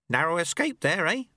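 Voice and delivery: put-on a wry old sweeper teaching his apprentice; old monk Lu Tse. A narrator's reading. Old master speaks to the dojo monks, wry.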